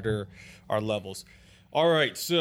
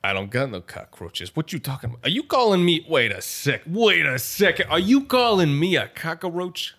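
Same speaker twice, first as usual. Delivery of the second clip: lightly voiced Italian tough guy, getting offended; a hint of a touchy mobster taking insult; Italian gangster character; 4 semitones higher than usual. Gangster bristling at his host in Italian accent. Improvised cockroach-industry gangster.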